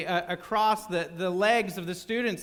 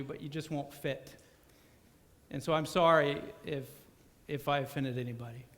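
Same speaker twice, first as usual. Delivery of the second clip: nervous apology; 3 semitones lower, 5 dB quieter than usual. Retold or imitated. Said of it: "nervously fumbled".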